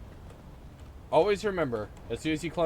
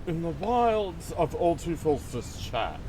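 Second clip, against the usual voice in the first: nature documentary. Pretend. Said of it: "Let's observe chat in its natural habitat".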